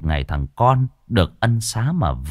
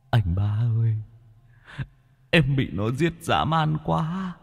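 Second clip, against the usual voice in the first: high, wailing ghost voice pleading his brother to flee; a drowned ghost moaning a warning, voice lifted high; ghost brother whimpering; 4 semitones higher than usual. A narrator's reading. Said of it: "cố gắng tì vào song cửa mà mếu máo". (giọng hồn ma mếu máo, cao, than khóc)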